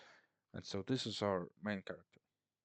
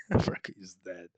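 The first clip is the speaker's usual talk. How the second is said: Freka is dead, said much louder in disbelief; louder amused restatement of the death; emphatic repeat; 9 dB louder than usual. Real, not acted.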